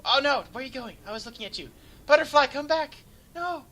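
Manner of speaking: high, loud wail after a runaway butterfly; mock heartbreak. Caster calling after his flying bomber, mock heartbroken wail. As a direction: plead with the bomber like a lost pet.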